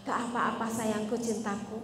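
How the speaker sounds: soft, syrupy comforting tone; a hammed-up tender reassurance; mock sweet husband. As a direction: coo it like an overdoting husband. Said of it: "Terus gimana dong".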